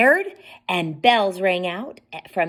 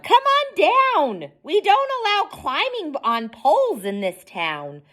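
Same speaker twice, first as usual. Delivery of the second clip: yelled; 10 semitones higher than usual. A narrator's reading. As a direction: call up sharply to the climber. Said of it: "A policeman saw Humpty and yelled".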